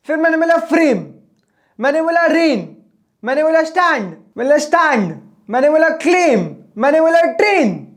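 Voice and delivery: punchy list, every word falling at the end; rapid-fire, no pauses. Shown as a demonstration. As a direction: rattle off one-syllable words without a break. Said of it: "धड़ाधड़ बोलता चला गया".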